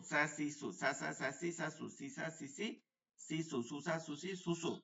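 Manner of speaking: স্যা, সি, সু said thin with a light hiss. Shown as a demonstration. Teacher drilling the thin letter, light hissing স্যা. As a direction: keep every স্যা light, not thickened. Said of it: "এটা চিকন".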